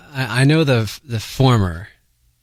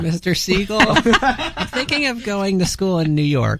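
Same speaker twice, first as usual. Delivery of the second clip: put-on young teen caller voice; teenage boy; 3 semitones higher than usual. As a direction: play a nervous teen asking. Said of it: "That's my teen voice".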